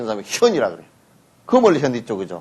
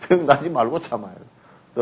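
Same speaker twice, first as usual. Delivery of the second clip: laughing repeat; slower than usual. Shown as a demonstration. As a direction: laugh gently as you repeat it.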